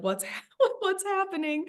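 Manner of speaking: high laughing crack in the voice; a teary laugh breaking into the question; choked-up giggle of disbelief; laughing through tears. Retold or imitated. Getting emotional, laughing.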